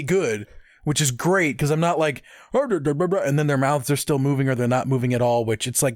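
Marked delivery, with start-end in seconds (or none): 2.5-3.2 mock lip-flap noise. Mimicking bad lip syncing.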